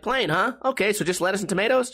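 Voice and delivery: lightly voiced puzzled cashier; mimicking cashier. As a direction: rattle off the cashier's check. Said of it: "the guy's like".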